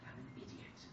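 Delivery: very soft, low, defeated admission; tearful realization. A narrator's reading. Son realizes his mistake, quietly crestfallen. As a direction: say it small, almost to yourself. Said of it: "wiped the tears from his face in realization".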